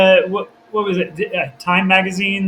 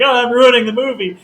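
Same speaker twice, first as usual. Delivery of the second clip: higher, louder voice of an anxious actor; mock panicked worry; 7 semitones higher, 6 dB louder than usual. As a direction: act out his panic, pitched up.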